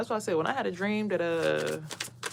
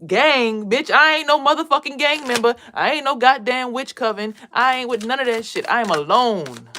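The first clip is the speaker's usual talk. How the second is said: much louder, higher furious rant; indignant outburst; 6 semitones higher, 9 dB louder than usual. Real, not acted. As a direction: blow up at the idea, loud and high. Indignant rant about the gang.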